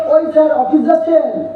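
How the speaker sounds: mock-respectful called-out question; teasing. Friends who used to needle him daily, teasing. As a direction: imitate the taunters' "sir". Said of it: "কি বলে চাপতো?".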